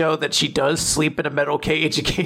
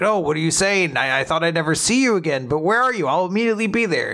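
eager Kuma; 5 semitones higher, faster than usual. Retold or imitated. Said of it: "And Kuma's like".

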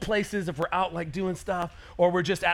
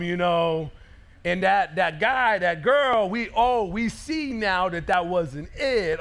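mock sheepish realization; slower than usual. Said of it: "a realization".

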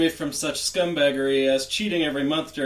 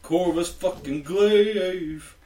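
dramatic announcer; 2 semitones higher, much slower than usual. Acted. Intro bit, dramatic name call.

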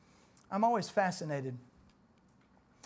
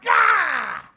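sudden shout; 12 semitones higher, 10 dB louder than usual. Acted. Preacher's sudden opening cry.

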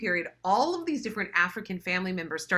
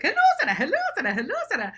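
higher sing-song hellos, fading down; relatives' greetings; 14 semitones higher, 5 dB louder, much faster than usual. Retold or imitated. Sarah recalls relatives' calls, higher sing-song. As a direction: mimic the family chorus lightly.

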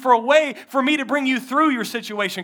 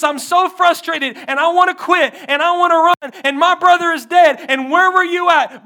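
Martha's plea; 3 semitones lower, 4 dB louder than usual. Acted. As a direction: start loud and anguished, end hushed. Martha's plea voiced in sermon.

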